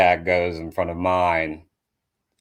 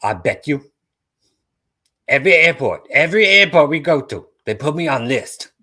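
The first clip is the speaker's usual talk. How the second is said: higher, louder whiny complaint; higher mock whine; whining friend; 7 semitones higher, 6 dB louder than usual. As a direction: moan it like she's doomed to be searched. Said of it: "she's like".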